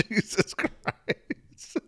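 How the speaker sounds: slow breathy whisper. Real, not acted. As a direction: drop to a stunned whisper. Whispered reaction after a laugh.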